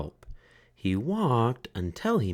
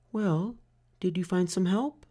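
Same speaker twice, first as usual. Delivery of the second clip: relieved mother; 11 semitones higher than usual. A narrator's reading. Mother finds Franklin, high and relieved. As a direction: sigh it out in relief. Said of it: "she asked".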